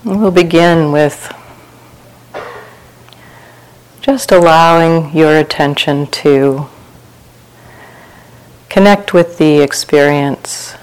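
unhurried meditation guidance with long pauses; guided meditation. Real, not acted. Teacher leading retreat sitters through open awareness, calm guided meditation. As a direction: guide listeners gently into relaxation, phrase by phrase.

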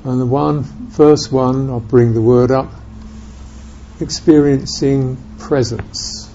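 unhurried meditation guidance with long silences; calm, spacious guiding, leaving room after each phrase; guided meditation. Real, not acted. Teacher guiding listeners to experience presence in the body, guided meditation.

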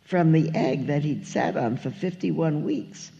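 lively, lilting read-aloud of rhyming verse; story narration. A narrator's reading. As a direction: read it like a picture book to children. Reads a children's story aloud.

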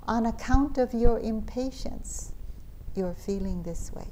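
put-on light Indian accent, rising on account. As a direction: gently quote a teacher in an Indian accent. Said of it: "in his Indian accent".

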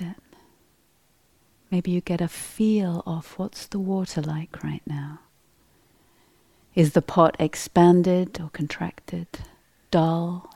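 unhurried meditation guidance with long pauses; guided meditation. Real, not acted. Teacher leading a group to sense their inner state, guided meditation. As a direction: guide them gently inward, leaving space after each question.

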